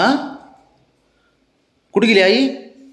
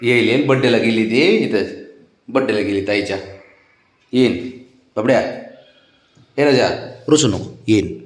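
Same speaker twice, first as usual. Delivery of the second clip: reassuring; 3 semitones lower than usual. Real, not acted. Telling the child mother will return, reassuringly. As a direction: soothe a sulking little one.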